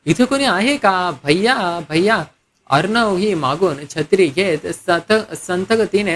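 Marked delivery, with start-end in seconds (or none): 0.1-2.2 higher, drawn-out hail; mild acted shouting for attention; calling out. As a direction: call slowly for someone out of sight. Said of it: "ती जोरजोरात ओरडू लागली".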